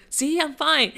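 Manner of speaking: high, loud showing-off; defiant kid. Retold or imitated. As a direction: prove it with a bright bravado. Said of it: "I was like".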